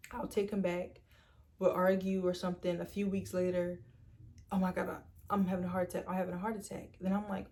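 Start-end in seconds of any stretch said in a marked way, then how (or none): 4.5-7.0 fast, breathless fake panic; mock panic. Boyfriend fakes another heart attack, rushed mock panic. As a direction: rattle it off like a staged emergency.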